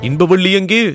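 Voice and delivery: high call with a rising end; high, questioning call, rising at the end; searching question. Acted. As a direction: ask anxiously where she is. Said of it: "என்று கேட்டார்".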